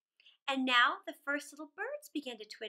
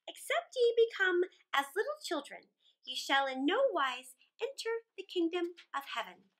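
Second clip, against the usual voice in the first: grandmother reading scripture; 4 semitones higher than usual. Acted. Grandmother reads Bible aloud.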